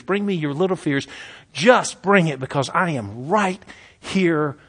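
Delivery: rising, building urgency, whispered close; pleading invitation. Acted. Jesus inviting the weary congregation, building then whispered. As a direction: call them in, then whisper the last words.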